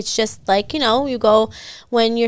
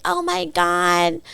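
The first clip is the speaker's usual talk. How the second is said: high, drawn-out mimicry of a woman; imitating her talk; 7 semitones higher, 3 dB quieter, much slower than usual. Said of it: "she talks like this".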